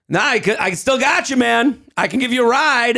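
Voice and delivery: pushy New Yorker, imitated; Queens accent. Stranger insisting on giving a ride, in a Queens accent. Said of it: "Queens accent".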